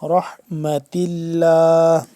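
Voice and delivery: slow, loud chant with a full, thick ر in رَحْمَةِ; emphatic ر on رَحْمَةِ, drawn-out recitation; heavy ra. Shown as a demonstration. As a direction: recite رَحْمَةِ with heavy r, hold اللَّهِ long. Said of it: "را کو موٹا کر کے پڑھیں گے".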